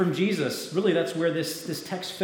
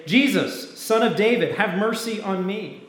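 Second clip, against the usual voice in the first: loud, raised plea from a beggar; crying out; 5 semitones higher, 5 dB louder than usual. A narrator's reading. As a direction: call out higher and louder, begging for mercy. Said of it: "he began to cry out and say".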